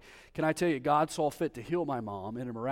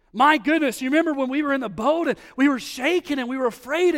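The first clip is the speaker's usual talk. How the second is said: much higher and louder, breathless wonder; excited recollection; 8 semitones higher, 9 dB louder than usual. Acted. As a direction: relive the storm with excitement. Voicing disciples' remembering.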